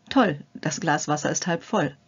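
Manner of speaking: bright "Toll", then a confident fall on "halb voll"; upbeat optimist. Shown as a demonstration. Demonstrating the positive thought to the viewer, cheerful and confident. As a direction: sound pleased and sure it will work. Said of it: "Es beginnt mit dem Denken und der Wortwahl".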